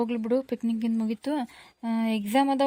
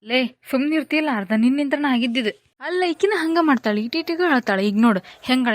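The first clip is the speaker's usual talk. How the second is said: louder, sharp annoyed telling-off; irritated scolding; 2 semitones higher, 6 dB louder than usual. Acted. Annoyed friend scolds Raju over the crying girl, loud.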